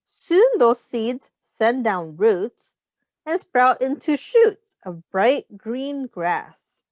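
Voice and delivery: slow, even storybook reading; reading to children. Acted. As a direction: read the rhyme aloud to the class. Reads picture book to children.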